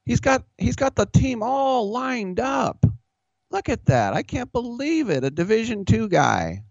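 high, amazed commentator impression; mocking announcer voice. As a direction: gush like a stunned TV analyst. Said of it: "and he goes".

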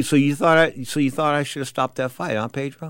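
a gunman's hushed menace; menacing quiet question. Retold or imitated. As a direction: ask it quietly, like a veiled threat.

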